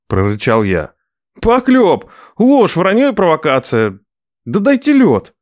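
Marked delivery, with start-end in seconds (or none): 1.4-5.3 higher, louder outraged nephew; indignant nephew. Acted. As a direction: protest the slander loudly.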